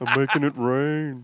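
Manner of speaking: put-on slow, laughing echo of the old-man voice; laughing imitation. Co-host laughingly echoes the comic's old-man line. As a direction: repeat the punchline slowly while laughing. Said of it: "I know".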